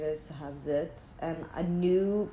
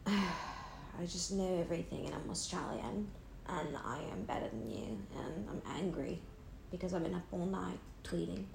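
a hint of a smug, tired Australian who thinks she's better than you; haughty Australian persona; 7 dB quieter than usual. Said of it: "That's the Amy Therese".

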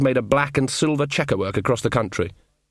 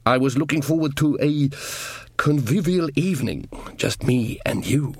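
dwarf voice; 2 semitones higher than usual. Acted. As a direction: linger on it as the disappointed dwarf. Casanunda hoped for romance.

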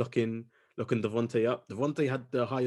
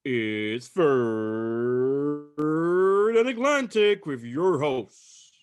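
stretched-out host introduction; announcer intro; 3 semitones higher, 3 dB louder, much slower than usual. Acted. Introducing the show and hosts, mild announcer drawl. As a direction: announce the show name grandly. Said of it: "I hate the way I say that".

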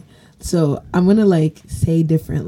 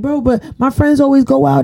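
put-on whiny teen boy; 10 semitones higher than usual. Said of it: "he's like".

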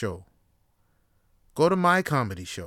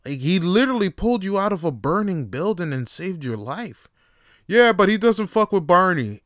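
put-on Boston accent; 6 semitones higher, 5 dB louder than usual. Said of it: "how to do a proper Boston accent".

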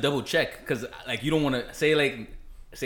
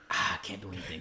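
helpless dog voice; 7 semitones lower, 11 dB quieter than usual. Retold or imitated.

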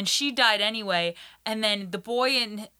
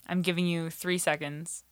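hushed warning whisper with no voice; 3 semitones lower, 4 dB quieter than usual. Real, not acted. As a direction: breathe it like a secret countdown. Spoiler warning to listeners.

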